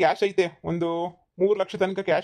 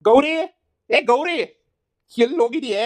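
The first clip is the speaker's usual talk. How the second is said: higher, louder repeated calls with a rising end; calling out; 6 semitones higher, 4 dB louder than usual. Acted. Husband calling his wife Gauri about the missing money, loud calls. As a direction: call her name across the house.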